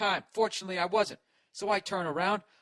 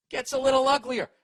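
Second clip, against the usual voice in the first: "Gets a little uglier" diucapkan lebih tinggi dan lebih keras; ominous emphasis; 8 semitones higher, 8 dB louder than usual. Shown as a demonstration. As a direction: push "little" up and loud, like things turning nasty.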